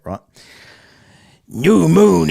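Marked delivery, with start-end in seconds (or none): 1.5-2.3 loud, high Texas redneck twang; Texas redneck accent. Shown as a demonstration. Streamer trying an American accent on request, loud Texas redneck. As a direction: put on an over-the-top redneck American accent. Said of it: "you mean Texas redneck bullshit".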